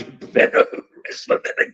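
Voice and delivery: a sly whispered dig; whispered jab. Real, not acted. Mocking the would-be wrestler in a sly whisper. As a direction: whisper the insult under your breath. Snide aside about the cat.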